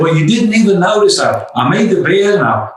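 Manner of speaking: sulking husband to wife, mildly hammed-up complaint; hurt complaint. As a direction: play the sulky husband lightly. Husband complaining in retold scene.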